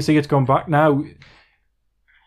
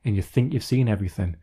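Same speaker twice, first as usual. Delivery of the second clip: dramatic narrator; 3 semitones lower, 4 dB quieter than usual. Pretend. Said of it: "go really dramatic there and say".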